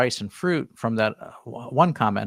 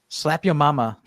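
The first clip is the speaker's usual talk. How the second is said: tickled by the name, breaking into a laugh; amused repeat; 3 semitones higher than usual. Real, not acted. Host reads a viewer's seasoning tip, amused by the name. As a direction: repeat it with a real chuckle.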